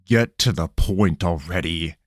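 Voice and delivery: growling cat demanding the point; growled. Acted. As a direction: snarl it out, fed up. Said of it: "Eris growled".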